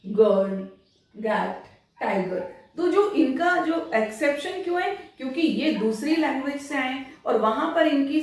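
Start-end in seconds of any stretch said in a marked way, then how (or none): 0.0-2.5 गर्ल, गैट, टाइगर with a hard g sound; hard g words. Shown as a demonstration. Teacher showing students hard g, slow and clear. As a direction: give गर्ल a hard g like in go, not a j. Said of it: "उन्हें ग pronounce किया जाता है".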